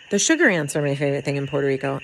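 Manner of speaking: fast, dry sarcastic praise. Pretend. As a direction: say it with heavy sarcasm. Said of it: "Now I'm being sarcastic right now".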